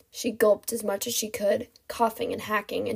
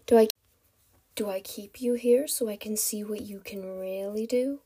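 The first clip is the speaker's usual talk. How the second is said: musing to himself. Acted. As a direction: think aloud in a villain's undertone. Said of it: "mostly to himself".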